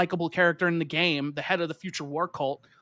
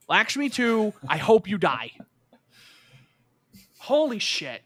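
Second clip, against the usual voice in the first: mock rage; 4 semitones higher, slower than usual. Retold own reaction to recording.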